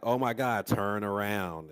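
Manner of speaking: loud, slow urgent plea; urgent warning. Retold or imitated. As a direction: yell it at the screen. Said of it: "You're like".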